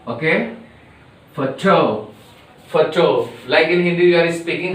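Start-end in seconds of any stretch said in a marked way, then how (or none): 1.3-3.3 Photo with weight on the to; Photo, to stressed. Shown as a demonstration. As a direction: lean on the to in Photo. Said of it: "See that the stress on T O".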